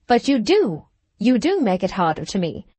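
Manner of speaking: a touch of a pleading cry, rising on do. Acted. Bulstrode pleads with Caleb not to abandon him, mildly pleading. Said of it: "constrained into a genuine pleading cry".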